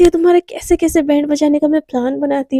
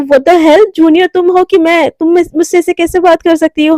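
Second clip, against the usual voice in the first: angry scolding. Acted. Senior scolding a rude junior, angrily raised voice. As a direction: put the junior firmly in her place.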